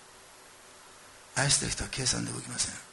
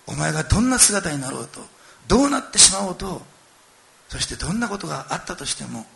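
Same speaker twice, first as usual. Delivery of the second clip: louder, heartfelt declaration; impassioned father; 5 dB louder than usual. Retold or imitated. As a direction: pour out a father's love firmly. Father embraces returning son. (父が息子に熱く語りかける)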